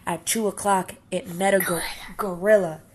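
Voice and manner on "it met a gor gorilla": whispered, hushed reveal; suspense whisper. Acted. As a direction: build suspense with a hush. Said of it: "narrator whispers suspense".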